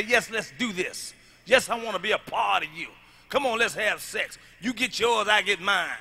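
mock woman's voice. Mock woman agreeing to sex.

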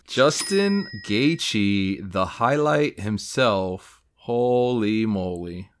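very slow, drawn-out reveal; awed announcement. Real, not acted. Collector revealing his big pull, awed and slow. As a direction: stretch the name out in awe.

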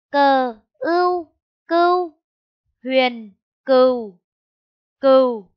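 loud, slow spelling chant; spelling out slowly. Shown as a demonstration. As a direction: spell each sound out for the class. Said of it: "Cô đánh vần". (đánh vần chậm và to)

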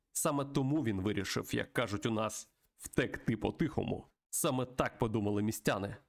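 lightly dramatized game story read-aloud; story narration. Acted. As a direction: narrate the tale with a touch of drama. (виразне читання історії)

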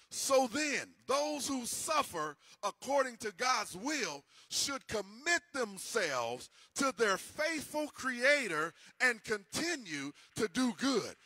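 slow, deliberate reading of the verse; scripture reading. Acted. Preacher reads First Peter to the congregation, slow and measured. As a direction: lay each word out slowly from the Bible.

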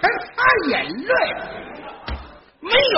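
high, drawn-out incredulous refusal; scornful disbelief. Acted. Straight man refuses to wipe tears, high scornful disbelief. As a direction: scoff in a high stretched voice.

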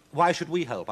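high, loud challenge; haughty owl. Acted. Poodle the owl refuses.

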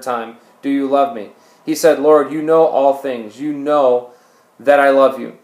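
deliberate reading, pausing between phrases; scripture reading. Acted. Preacher reading Jesus questioning Peter, deliberate scripture reading. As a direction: read the dialogue out plainly and firmly.

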